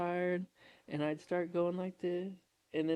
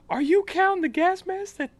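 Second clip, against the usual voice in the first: high, raised-voice imitated question; recruit calling out; 7 dB louder than usual. Recruit asking drill sergeant about the gas mask, calling out. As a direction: sound off the question to a superior.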